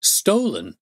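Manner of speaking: an accused son stunned by the charge; shocked cry. A narrator's reading. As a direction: throw the word back in disbelief. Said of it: "he cried".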